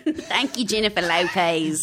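put-on amateur Aussie accent; attempted Australian accent. Guest echoing host's thanks, attempted Australian accent. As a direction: echo the name in a bad Australian accent. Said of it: "I can't do any accent".

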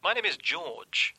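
slow, faked British introduction; put-on British accent. British caller giving his name to the host, put-on British accent. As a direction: drag it out in a fake British accent. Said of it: "it was just a voice I was putting on".

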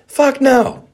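sudden outburst. Real, not acted. Angry outburst mid-rant.

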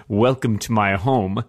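slow, smooth villain welcome; a hint of a creepy suave host; mock suave villain. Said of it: "he says".

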